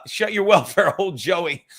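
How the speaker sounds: words broken by a real laugh; cracking up mid-line. Real, not acted. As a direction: laugh through the insult. Rereading chat insult, laughing.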